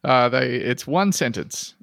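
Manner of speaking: ordinary talk, nothing marked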